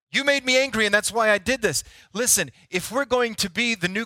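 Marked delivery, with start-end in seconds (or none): 0.1-1.8 mock blaming. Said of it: "we've become okay with anger being their fault".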